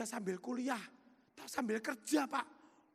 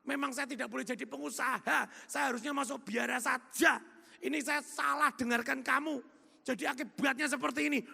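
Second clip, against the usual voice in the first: retold crying prayer; 2 semitones higher, 6 dB louder than usual. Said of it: "menangis di hadapan Tuhan".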